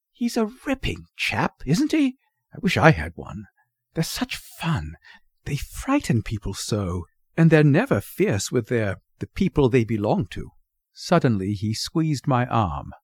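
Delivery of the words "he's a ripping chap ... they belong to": lightly voiced young boy, admiring; enthusiastic boy. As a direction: chatter keenly, starting high and settling down. Voices young Henny admiring bulldog.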